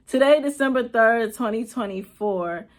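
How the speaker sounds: firm restart. Real, not acted. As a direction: push through Today, December third, firmly. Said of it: "retake after laugh".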